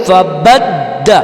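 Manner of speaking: فبد very slow, دال jolted; jolted dal. Shown as a demonstration. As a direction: hit the دال in فبد with a jolt. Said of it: "دال کو ہم جھٹکا دیں گے". (فبد، دال پہ جھٹکا)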